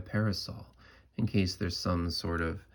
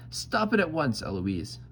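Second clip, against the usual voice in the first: angry; 5 semitones higher than usual. Retold or imitated. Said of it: "he gets madder".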